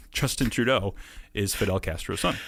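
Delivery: trying to say it without laughing; brief chuckle, then the absurd claim with amusement; suppressed laughter. Real, not acted. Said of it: "You can't say it without laughing".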